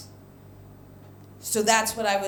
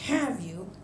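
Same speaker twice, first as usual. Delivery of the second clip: restrained anger; 3 semitones lower, 6 dB quieter than usual. Retold or imitated. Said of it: "she looks at me real angry".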